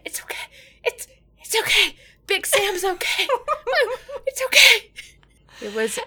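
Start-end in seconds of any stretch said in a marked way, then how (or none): 0.1-4.9 high, squeaky mock-crying reassurance; tearful reassurance. Sam on the floor soothing the twins, tearful. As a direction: imitate sobbing while trying to soothe, half laughing. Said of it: "Sam just reaching up from the floor".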